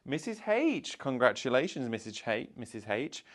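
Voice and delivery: high excited shout of the winner's name; excited winner call. Real, not acted. Announcing the winner.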